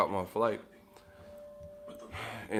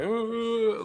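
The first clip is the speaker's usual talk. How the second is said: high drawn-out zombie moan; imitating a zombie crackhead at the door; zombie groan; 12 semitones higher than usual. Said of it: "like, zombie mode".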